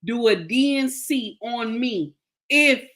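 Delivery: indignant demand with emphatic bursts; retold outrage. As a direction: replay your disbelief, pausing between outbursts. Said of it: "I was going crazy".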